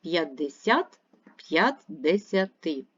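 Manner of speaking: slow, each word called out for its stress; stress marked slowly. Shown as a demonstration. Teacher to pupils, slow stress-finding call-out. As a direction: say the numbers slowly to find the stress. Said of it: "Постав наголос".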